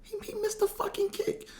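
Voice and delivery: very high falsetto mock whimper of a devastated dad; hammed-up high-pitched moaning; disbelieving lament. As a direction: squeak it out in stunned disbelief. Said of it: "that night he just like".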